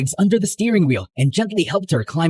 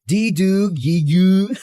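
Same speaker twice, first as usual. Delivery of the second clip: lightly mocking baby babble; teasing baby talk; 3 semitones higher, slower than usual. Teasing D about her name, light baby talk. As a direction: coo it like a baby, just to tease. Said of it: "Sounds like a baby trying to talk".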